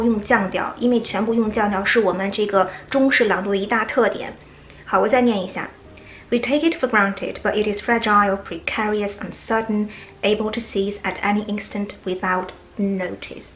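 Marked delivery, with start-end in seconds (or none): 6.3-13.5 level tune on each item, falling only on notice; level then final fall. Shown as a demonstration. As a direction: keep the list level, drop at the end. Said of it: "最后才降下来".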